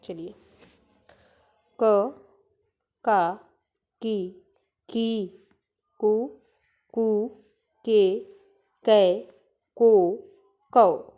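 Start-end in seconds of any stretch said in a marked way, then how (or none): 1.8-11.1 each syllable from क to कौ said slowly and firmly, one by one; a teacher modelling क का की कु के कै को कौ for pupils to repeat; syllable drill. Shown as a demonstration. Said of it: "इस तरह से उसका उच्चारण होगा". (क से कौ तक हर अक्षर साफ़ और ज़ोर से, बच्चों को दोहराने के लिए)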